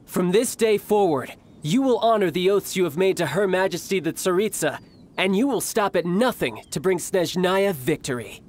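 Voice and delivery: commander addressing the troops in ringing tones; grand, solemn oratory to recruits; stern, lofty military address; formal rallying speech. Acted. My brother's giving his speech.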